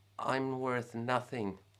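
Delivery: tiny, soft, insignificant-sounding little voice. Demonstrating a confident pose while speaking in a small, insignificant voice. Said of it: "in a really small and insignificant voice".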